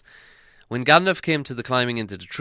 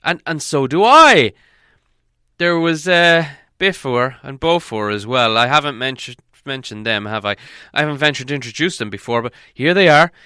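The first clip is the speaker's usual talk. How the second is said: higher, louder call to the dwarves; wizard calling out; 4 semitones higher, 8 dB louder than usual. Acted. Gandalf calling the hidden dwarves out, high and loud. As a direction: summon them in with a lift.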